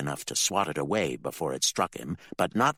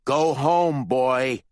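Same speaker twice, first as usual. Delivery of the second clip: louder, menacing order; dangerous growl; 7 semitones higher, 8 dB louder, much slower than usual. Acted. Bill warns his son, dangerous growl. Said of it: "a dangerous growl in his voice".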